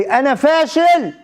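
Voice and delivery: high, drawn-out mock shout. Friend insisting to interviewer that he failed, retold high outcry. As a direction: cry it out slowly in frustration, imitating him. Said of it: "هالمرة صرخ بصوت أعلى".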